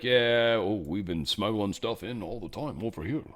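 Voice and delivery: put-on vague, made-up Romanian accent; half-hearted mock Romanian accent; attempted Romanian accent. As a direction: badly guess at a Romanian accent. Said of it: "the accent was that I was attempting".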